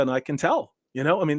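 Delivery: ordinary talk, nothing marked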